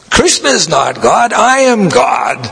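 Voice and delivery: mock hippie boast. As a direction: throw the claim out like a defiant hippie. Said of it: "the hippie was saying such a way, blaspheming".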